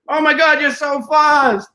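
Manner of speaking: high, loud, drawn-out fake awe; mock amazement. Man clowning beside a running woman at the gym, mock amazement. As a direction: gush in exaggerated astonishment, stretching the words slowly.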